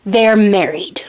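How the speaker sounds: hushed deadpan whisper; conspiratorial whisper; whispered aside. Real, not acted. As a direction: whisper it like a secret. Aside about the wedding.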